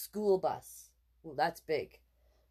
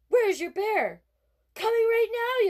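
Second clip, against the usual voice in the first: voiced characters; 7 dB louder than usual. Mom and boy dialogue voices.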